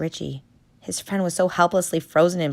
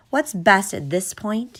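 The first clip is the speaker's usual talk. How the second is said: calm; 5 semitones higher than usual. Acted. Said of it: "he said calmly".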